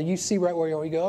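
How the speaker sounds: earnest pastor's prayer voice; closing prayer. Acted. Pastor praying over his standing congregation, earnest prayer. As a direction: pray over them, earnest and fervent.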